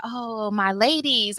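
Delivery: slow drawn-out greeting, lightly voiced; imitating Kenway. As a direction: stretch it out like a smooth guy. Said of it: "That sounds just like him".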